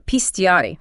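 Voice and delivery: pistiare said slowly, each syllable drawn out; Sicilian word. Shown as a demonstration. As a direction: draw out pistiare slowly and carefully. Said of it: "which means to eat".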